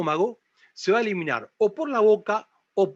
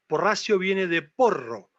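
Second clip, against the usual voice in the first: mock wrong etymology; 3 semitones higher than usual. Shown as a demonstration.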